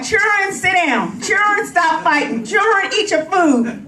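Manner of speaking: a hint of a stern old-school grandma scolding. To the borrowed kids, a lightly voiced strict grandma. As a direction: call the children to order like a strict grandma. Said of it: "sounding like an old school grandma".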